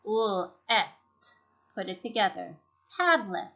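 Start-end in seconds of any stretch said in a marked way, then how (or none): 0.1-0.9 "ul, et" in separate pieces; syllable sounded out. Shown as a demonstration. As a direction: sound out "ul, et" bit by bit. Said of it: "The second syllable is a closed syllable".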